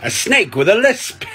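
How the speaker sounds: punchline jumps high. Acted. Punchline delivered.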